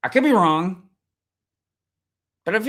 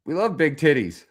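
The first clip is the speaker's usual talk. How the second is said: quoted kids' line, mildly voiced; kids' retort quoted. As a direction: toss it off as the kids' reply. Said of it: "These kids are like".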